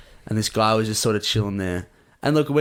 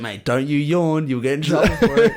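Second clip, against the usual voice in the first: higher, louder mock telling-off; joking warning; 4 semitones higher, 4 dB louder than usual. Joking with the yawning stranger all night, mock-stern raised-pitch warning. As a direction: tease him with a playful scolding.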